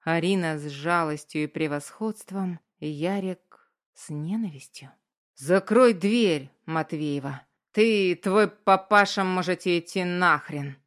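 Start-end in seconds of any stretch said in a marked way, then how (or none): 5.3-10.8 put-on slurred drunk. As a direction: slur it like a drunk. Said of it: "заплетающимся языком".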